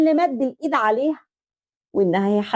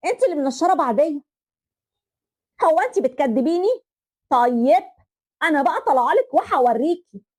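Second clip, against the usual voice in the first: angry yelling. Acted. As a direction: threaten to come up and settle it. Balcony quarrel escalates. (تهديد بصوت عالي وغاضب)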